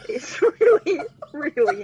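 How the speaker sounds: really nasty said through a laugh. Real, not acted. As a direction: giggle through it, mocking your own singing. Joking about her own singing.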